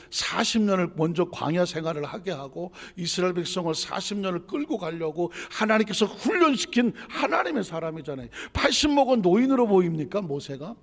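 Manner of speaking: rising pulpit fervour; forceful preaching. Real, not acted. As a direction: drive the argument to an emphatic question.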